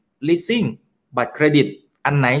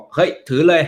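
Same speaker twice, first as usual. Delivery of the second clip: mock urging; 4 semitones higher, 4 dB louder than usual. Host imitating one guru telling investors to hold, urging. Host voices a guru's verdict.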